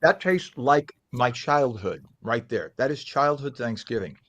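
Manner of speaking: chewing while talking; slow words round a bite; mouth full. Real, not acted. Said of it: "forgive my mouth being covered".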